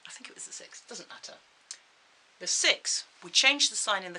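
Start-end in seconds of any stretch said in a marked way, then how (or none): 0.1-1.3 muttering to himself; unvoiced aside to self; whispered aside. Real, not acted.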